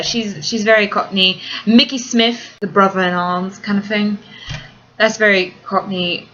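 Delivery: modern-day London Cockney accent. Shown as a demonstration. Vlogger answering a request, attempting a modern Cockney accent. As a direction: have a go at everyday Cockney. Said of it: "Let me hear some of that Cockney again".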